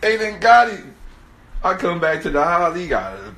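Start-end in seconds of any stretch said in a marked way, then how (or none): 0.0-1.0 high, loud comic wail; drawn-out mock dismay; mock lament. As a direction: mourn a friend lost to the streets, hammed-up. Mock lament over lost friend.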